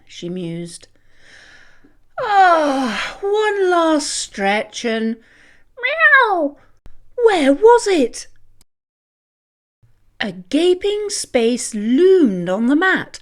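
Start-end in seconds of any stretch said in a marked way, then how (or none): 2.2-8.3 high, loud startled cry; cat voice rising to an alarmed meow; cat wakes to find her cream gone; surprised cat. Acted. Mimi waking, discovering cream gone.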